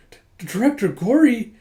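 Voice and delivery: high, loud stunned stammer; acted-out betrayed surprise; stammering shock. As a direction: stumble on it in disbelief.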